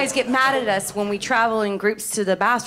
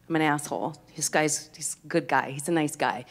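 much lower and softer, thinking to herself; quiet inner thought; 8 semitones lower, 8 dB quieter than usual. Retold or imitated. On a date with the older guy, soft inner thoughts. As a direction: murmur it under your breath. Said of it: "and I thought".

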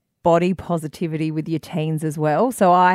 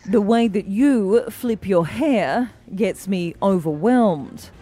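newsreader voice. Acted. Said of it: "bung on my old newsreader voice".

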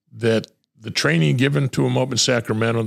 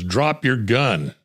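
retold command; much slower than usual. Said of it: "gets out of his car and says".

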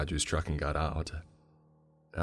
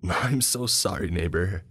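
bursting with glee; 2 semitones higher than usual. Acted. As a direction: blurt it out, pitched way up. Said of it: "he burst out laughing".

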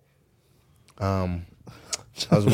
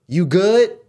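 high, louder questioning mom; mom's concerned check; 9 semitones higher, 6 dB louder than usual. Retold or imitated. Mom on the phone to her traded son, high-pitched question.

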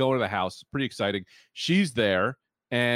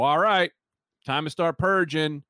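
announcing; 4 semitones higher, 4 dB louder than usual. Retold or imitated. Announcing the start, louder and slow.

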